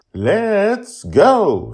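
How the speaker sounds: high, loud firm grandmother; high brisk grandmotherly voice; grandma voice. Acted. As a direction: hustle him out the door. Susie pushes him out.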